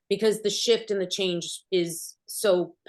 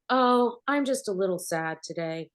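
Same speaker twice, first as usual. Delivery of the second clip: mock sad line, put-on and performed; fake acted sadness. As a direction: play sad like a bad TV actor. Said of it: "she's, you know, acting".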